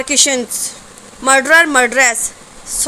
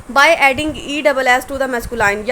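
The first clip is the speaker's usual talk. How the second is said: very slow, each word set apart; dictating slowly; much slower than usual. Shown as a demonstration. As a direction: read the heading out slowly for dictation. Teacher dictates the rule heading. (Notes के लिए बहुत धीरे बोलना)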